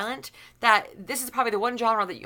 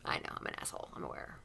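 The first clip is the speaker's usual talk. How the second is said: much softer, mostly unvoiced confession; half-whispered admission; 15 dB quieter, faster than usual. Real, not acted. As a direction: admit it under your breath, teasing. Mock admission after taunt.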